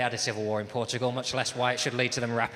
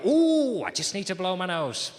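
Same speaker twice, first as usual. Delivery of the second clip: overly casual excuse; 7 semitones higher, 5 dB louder than usual. Retold or imitated. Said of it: "I go".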